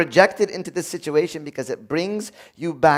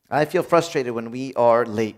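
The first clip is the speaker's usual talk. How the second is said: calm feeling statement; 4 semitones lower than usual. Shown as a demonstration.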